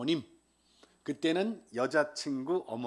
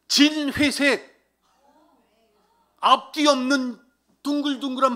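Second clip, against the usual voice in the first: higher, louder, slow emphatic telling; loud exclaim; 9 semitones higher, 12 dB louder, slower than usual. Real, not acted. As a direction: belt out the shock of the outfit. 장모님 옷차림에 대한 과장된 감탄. (높고 크게 강조하며 놀라움을 외치듯)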